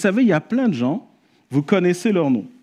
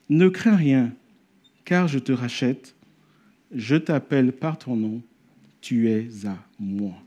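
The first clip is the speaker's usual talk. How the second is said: tender reading; 4 semitones lower, 4 dB quieter, slower than usual. Acted.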